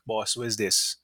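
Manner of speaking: lightly put-on Grenadian accent. Customer questions the bartender about his drink, mild Grenadian accent. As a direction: try a rough Grenadian lilt. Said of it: "That's my terrible Grenadian accent".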